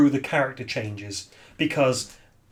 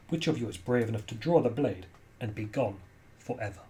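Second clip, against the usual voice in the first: lightly voiced ghost delivering a solemn warning; ghostly warrior, grave. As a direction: pose the grave challenge, falling away at the end. Game master voices Yael's ghost.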